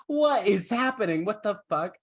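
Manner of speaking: high-pitched mock bewilderment, gradually easing; baffled outrage. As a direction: demand answers in hammed-up shock. Voices king's baffled reaction to chaos.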